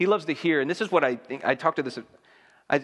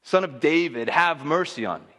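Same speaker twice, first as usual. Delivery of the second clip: retold shout; 4 semitones higher than usual. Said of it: "he shouts out".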